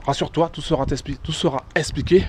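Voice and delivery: short of breath, pausing to breathe; breathless talk on a steep climb. Real, not acted. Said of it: "Faut que je reprenne mon souffle".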